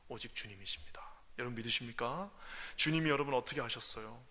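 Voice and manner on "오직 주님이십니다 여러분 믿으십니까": hushed, intimate; whisper. Real, not acted. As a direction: whisper the faith. Preacher whispers.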